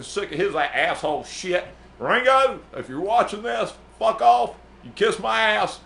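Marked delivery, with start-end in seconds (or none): 2.0-5.8 high, loud cursing at a famous musician; hammed-up outburst aimed at an absent star; mock angry rant. Manager yelling at the musician through the camera, hammed-up fury.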